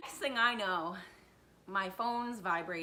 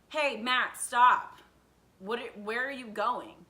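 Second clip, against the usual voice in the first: raised-voice imitation of an authority; acted calling out; 4 semitones higher, 8 dB louder than usual. School president calls after fleeing boy, acted shout. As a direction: call after someone running off.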